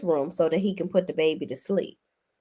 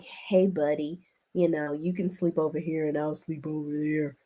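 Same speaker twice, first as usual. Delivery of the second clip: Grimace impression; 4 semitones lower, 7 dB quieter than usual. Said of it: "sounding like goddamn Grimace".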